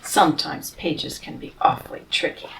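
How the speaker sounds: soft whisper, half to herself; whispered aside. Real, not acted. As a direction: whisper while fumbling with the pages. Aside while turning a page.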